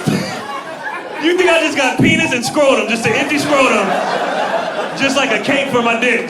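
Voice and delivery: loud, high, incredulous rant; indignant disbelief. Retold or imitated. Comedian answering a dude who asked about his balls, indignant. Indignant retort to absurd question.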